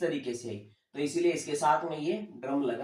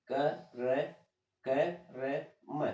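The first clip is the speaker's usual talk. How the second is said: spelled out slowly; 4 dB quieter, slower than usual. Shown as a demonstration. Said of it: "अब इसको जल्दी से बोले".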